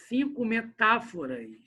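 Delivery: CINCO METÁFORAS slowed, leaning on TÁ; stress on TÁ. Shown as a demonstration. Teacher scanning a verse for the class, CINCO METÁFORAS slow with stressed TÁ. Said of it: "O tá".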